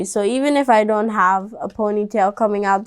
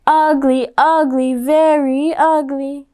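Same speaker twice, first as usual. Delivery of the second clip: put-on taunting kids; 3 semitones higher than usual.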